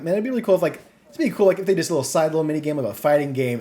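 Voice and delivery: hope bubbling up fast; growing excitement. Retold or imitated.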